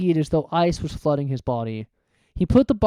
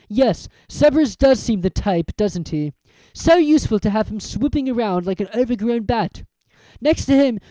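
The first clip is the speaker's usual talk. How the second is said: cold villain; 6 semitones higher, 4 dB louder than usual. Acted. Quirrell revealing himself.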